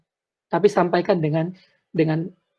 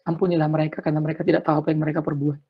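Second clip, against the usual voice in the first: quoted prayer; 3 semitones lower, 4 dB quieter, faster than usual. Retold or imitated. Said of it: "seperti doa Tuhan Yesus".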